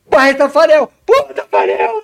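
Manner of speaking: very loud, very high cheering shout. Recounting watching a penalty being taken, retelling shouting and cheering. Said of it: "Gritando mesmo, torcendo".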